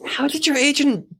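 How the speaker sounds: high, laughing disbelief; incredulous. Real, not acted. Co-host learns of the agent's mix-up, incredulous. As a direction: exclaim it in amused outrage. Listener reacts to agent's mistake.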